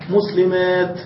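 "مسلمات" drawn out to a sounded final t; pausal t ending. Shown as a demonstration. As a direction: end "مسلمات" on a clear unvowelled t. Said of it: "الوقف عليها بالتاء".

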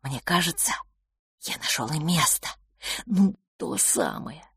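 hushed, secretive aside; conspiratorial. A narrator's reading. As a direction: lean in and drop the voice like sharing a secret. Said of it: "он заговорщицки огляделся".

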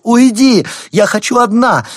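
high, loud shout. A narrator's reading. Wife in labour drives her husband away, shouting. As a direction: yell him out of the room. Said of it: "крикнула она Роберту".

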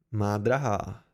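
low, slightly stern address to his wife; somewhat curt. A narrator's reading. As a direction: check her with a low, terse voice. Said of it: "pravil Alveron poněkud stroze". (poněkud stroze, hlubokým hlasem)

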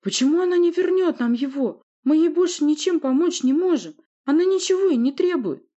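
very high, loud pleading; anguished shouting. Acted. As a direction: keep crying it out. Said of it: "взревела Воля".

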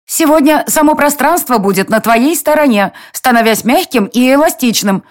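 high, lively little fairy. A narrator's reading. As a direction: play the bossy palace fairy, high. Fairy character speaks at length.

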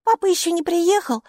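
high voice dictating phrase by phrase; composing a message. Acted.

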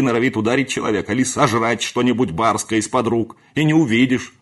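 loud, high, angry tirade; furious scolding. A narrator's reading. Housekeeper berating the servant, furious and loud. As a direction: tear into him with rising fury.

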